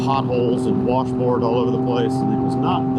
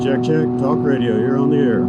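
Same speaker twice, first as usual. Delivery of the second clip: speaking inside a helmet on the road; motorcycle helmet. Real, not acted. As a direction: through a helmet mic over engine roar. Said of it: "with your visor open, I can hear your exhaust really loud".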